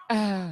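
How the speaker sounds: short mock moan; imitated moan. Comic imitating the woman in bed, mock moan. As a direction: imitate a partner's moan briefly. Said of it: "and then she's moaning".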